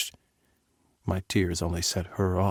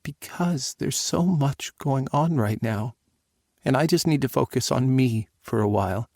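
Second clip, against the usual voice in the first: daughter voice; 3 semitones higher than usual. Acted.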